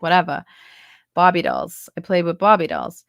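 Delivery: Brooklyn accent with dropped r's; New York accent. Shown as a demonstration. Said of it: "this sort of thing".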